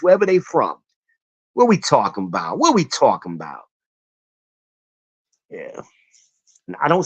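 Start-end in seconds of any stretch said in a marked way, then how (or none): 1.5-3.6 put-on lower-pitched New York or Philly accent. Streamer showing how he quotes them, mock New York voice. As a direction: imitate the catchphrase in a Philly accent. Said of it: "New York voice or that Philly voice".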